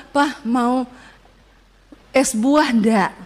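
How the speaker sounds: slow, gently coaxing wife's offer; acted soothing question, drawn out. Wife offering a raging husband a treat, coaxing.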